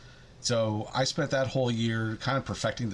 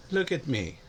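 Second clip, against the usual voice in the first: "Look" pitched up in the cat voice; cat voice with an accent; 5 semitones higher than usual. Acted. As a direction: lift "Look" higher, begging. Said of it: "why the accent?".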